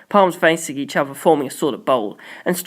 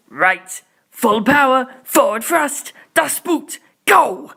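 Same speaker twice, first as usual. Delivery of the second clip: higher, rising excitement to a final go; excited launch call; 8 semitones higher, 4 dB louder, slower than usual. A narrator's reading. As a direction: build it up like a countdown to launch. Pilot launching at full power.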